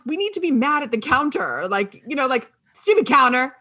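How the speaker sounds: fake-furious at the stupid counter; mock anger at counter. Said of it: "I'm like".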